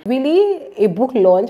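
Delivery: high, slow stunned "really"; surprised. Retold or imitated. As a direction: caught completely off guard. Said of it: "And I'm just like".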